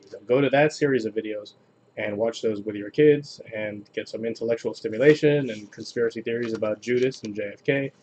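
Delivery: ordinary talk, nothing marked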